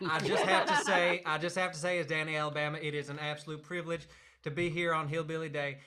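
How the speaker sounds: put-on lightly done Southern hillbilly accent. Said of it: "I can't do the accent anymore".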